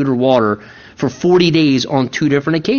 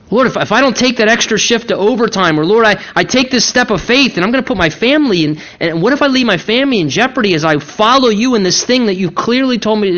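higher, hurried string of mock worries; worried pleading; 4 semitones higher, faster than usual. Believer questioning the Lord about family in jeopardy, worried pleading. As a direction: raise anxious objections in a lifted voice. Voices believer's doubts to God.

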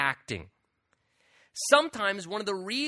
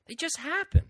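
shrugging aside; 10 semitones higher, 4 dB louder than usual. Acted. Resigned aside.

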